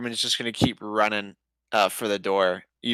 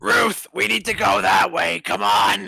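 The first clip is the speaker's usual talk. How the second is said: urgent shout; 7 semitones higher, 3 dB louder than usual. Acted. Calling out to flee.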